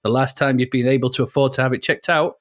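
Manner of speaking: hammed-up American racer's narration, somewhere in America; American accent. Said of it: "it's somewhere in America".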